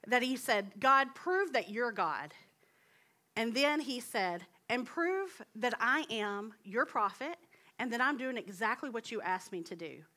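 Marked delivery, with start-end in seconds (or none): 0.8-2.3 prayer out loud. Acted. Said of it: "prayed out loud for everyone". 4.7-10.0 prayer out loud. Acted. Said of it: "prayed out loud for everyone".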